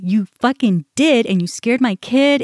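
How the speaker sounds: mildly heated reenacted accusation; angry comeback, partly acted out; retold cussing. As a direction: swear at her accusingly, held short of shouting. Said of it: "I started just cussing at her".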